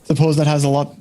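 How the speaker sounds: put-on a light Scottish accent creeping into the patron; slipping Scottish accent. Bar patron musing to Alistair in a light Scottish accent. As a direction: let the patron drift into a faint Scottish lilt. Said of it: "I keep slipping into Scottish".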